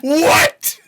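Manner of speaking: high, loud shouts of disbelief; real hype yelling, laughing at the end; shocked excitement. Real, not acted. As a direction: yell it at the screen, blown away. Shocked reaction to the verse.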